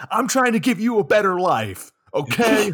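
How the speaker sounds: defensive parent snapping back; mock exasperated dad. Dad shouting at his child in a mock argument.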